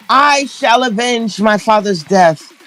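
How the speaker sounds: slow, hammed-up old-fashioned stage voice; dramatic theatrical parody. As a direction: overact it like a melodrama heroine. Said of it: "And in scene".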